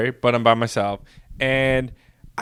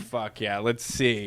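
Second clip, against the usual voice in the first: put-on Scottish accent; 3 semitones lower, 9 dB quieter, slower than usual. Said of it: "in their wonderful accents".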